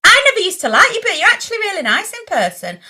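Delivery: high, swooping mock gush; gushing backhanded compliment. Fan paying her a clumsy compliment, high gushing voice. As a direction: imitate a fan gushing tactlessly.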